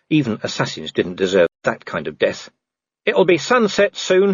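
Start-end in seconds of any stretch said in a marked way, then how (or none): 3.0-4.3 high, slow called-out line; shouted warning. Acted. Vimes calling down to the werewolves, shouted. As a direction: call it down from a distance. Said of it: "he shouted".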